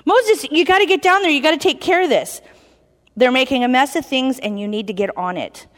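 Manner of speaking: mock-stern God who slows into the anger; hammed-up mad God; urgent God. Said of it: "my God's cool like that".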